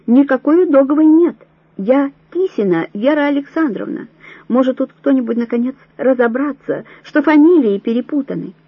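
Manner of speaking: desperate protest. A narrator's reading. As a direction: make them listen, you are not her. Vera protests at roll call.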